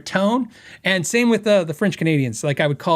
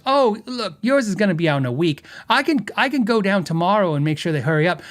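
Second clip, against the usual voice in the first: lightly imitated New York phone lady; mock New York accent, offering help; bad New York accent. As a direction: do a helpful New Yorker, badly. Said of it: "I have a horrible, uh, New York accent".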